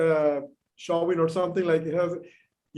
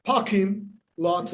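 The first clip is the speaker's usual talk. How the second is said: imitated Boston accent, slow, R-less "Parking"; slower than usual. Shown as a demonstration. Fan showing author the Bostonian accent, slow imitated Boston accent. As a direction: slowly try "Parking lot" the Boston way. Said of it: "Bostonians do not pronounce the last R".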